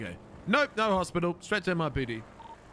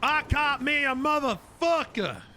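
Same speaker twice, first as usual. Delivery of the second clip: triumphant shout; 9 semitones higher, slower than usual. Acted. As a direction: savor the catch, drawn out. Cop arresting suspect, triumphant.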